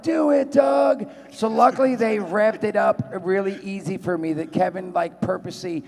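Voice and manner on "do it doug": high, slow yelled command; movie line shout. Acted. Playing Jay urging Doug on, slow high shout. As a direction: drag out a hammy shout. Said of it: "the scene in the back where I'm like".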